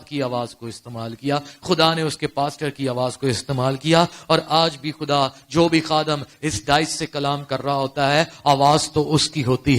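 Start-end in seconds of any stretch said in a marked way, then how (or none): none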